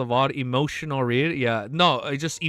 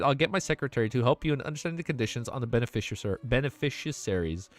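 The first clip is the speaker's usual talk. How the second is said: steady, even read-aloud narration; audiobook-style reading; story narration. A narrator's reading. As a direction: read the novel to chat.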